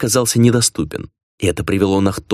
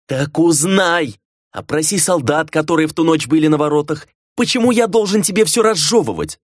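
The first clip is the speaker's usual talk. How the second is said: angry master; 8 semitones higher than usual. A narrator's reading. Master scolds the servant.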